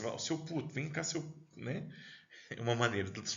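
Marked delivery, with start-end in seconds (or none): 0.2-1.2 put-on Portuguese accent. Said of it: "Português que fala um pouco pra dentro".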